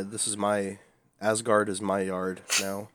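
wrestling promo. Pretend. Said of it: "a wrestling promo".

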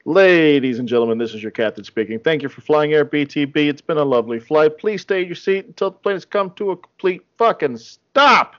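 pilot's cabin announcement, hammed-up; airline captain announcement. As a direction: play the captain over the intercom. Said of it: "we have the captain, Big Nick, who's gonna land this plane".

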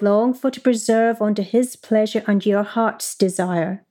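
measured Middle English letter reading. Shown as a demonstration. Marjorie writing to her Valentine, in Middle English pronunciation. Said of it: "I'm gonna do it in the Middle English".

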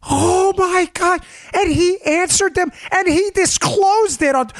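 high-pitched fake shock; mock outrage. Mocking liberals over a Twitter message, mock-shocked. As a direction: pile on the scandalised amazement.

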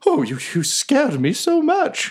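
high, slow, squeaky voice; a gentle little creature still catching its breath; timid badger. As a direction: GM voicing the frightened badger to Quinny, high and squeaky.

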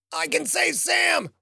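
strangled, desperate high cry; croaked. Acted. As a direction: force it out while being choked. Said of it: "she croaked out a fast, desperate sentence".

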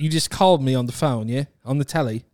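insistent put-on British accent. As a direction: accuse in casual British slang and accent. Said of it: "you have to do British accent".

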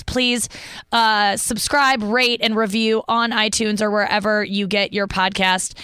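upbeat host's promo delivery; podcast sign-off. Real, not acted. Host thanks listeners and plugs her TV show, podcast sign-off. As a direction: plug the show to your listeners, evenly projected.

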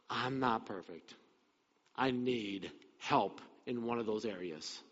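a quiet honest confession; humble confession. Retold or imitated. Preacher voices the congregation admitting need, quiet and slow. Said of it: "all of us would probably say".

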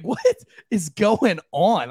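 drawn-out, slow bewildered question; slow disbelief. Retold or imitated. Retelling her reaction at the steak dinner, slow disbelieving drawl. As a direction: stretch out the disbelief. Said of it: "I'm just like".

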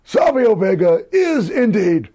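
mock arena announcement, laughing; ring announcer. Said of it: "He goes".

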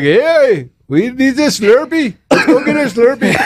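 high, drawn-out mock Indian accent. Replying to friend about a Slurpee, mock Indian accent. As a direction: answer in a playful imitation Indian accent. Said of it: "And I'd be like".

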